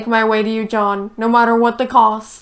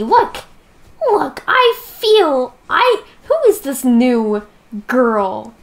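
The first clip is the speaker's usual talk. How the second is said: mock upset; 5 dB louder, slower than usual. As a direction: play the jilted lover. Jealous mock outburst.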